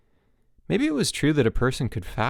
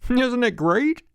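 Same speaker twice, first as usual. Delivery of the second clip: high, louder gush; overeager counselor; 14 semitones higher, 5 dB louder, slower than usual. A narrator's reading. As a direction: sell the stew. Enthusing counselor.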